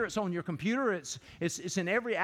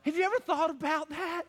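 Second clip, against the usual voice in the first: laughing mockery; 7 semitones higher than usual. Mocking golfer, with laugh.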